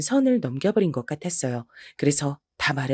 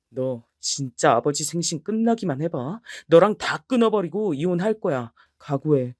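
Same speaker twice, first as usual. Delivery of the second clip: a husband threatening his wife; 2 semitones lower than usual. Acted. (낮은 목소리로 위협하는 남편)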